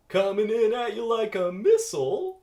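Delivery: high, loud threatening call; menacing loud boast; loud taunt. Acted. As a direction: shout a taunt across the court. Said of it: "says Ken the person".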